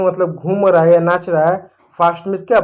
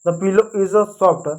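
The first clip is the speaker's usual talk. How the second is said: very slow, every word separated; slow model sentence; much slower than usual. Shown as a demonstration. Teacher modelling the sentence for students, very slow. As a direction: dictate it slowly. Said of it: "तकिया की अंग्रेजी होती है pillow".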